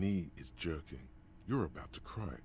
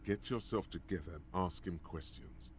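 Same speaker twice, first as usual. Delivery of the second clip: urgent push; 3 semitones higher, 4 dB louder than usual. Acted. Urging player to act.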